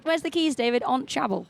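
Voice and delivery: put-on Geordie question and answer; Newcastle accent. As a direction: mimic Geordie family chat, "table" as "chabble". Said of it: "he makes up words in Newcastle".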